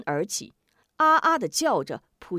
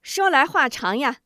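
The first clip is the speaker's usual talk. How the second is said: laughing; 6 semitones higher, 5 dB louder than usual. Acted. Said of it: "笑道".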